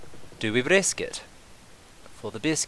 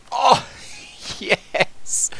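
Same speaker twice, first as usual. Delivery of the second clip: a loud, high, delighted cry with a burst of laughter; excited whoop; 7 dB louder than usual. Real, not acted. Gamer whooping as the war gamble pays off, loud and high. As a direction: whoop with real delight as the plan works. Big swing pays off in game.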